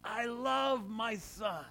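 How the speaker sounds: drawn-out heavenly announcement of love; voice of God. Retold or imitated. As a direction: proclaim it slowly like God's voice from the cloud. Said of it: "And God's voice came and says".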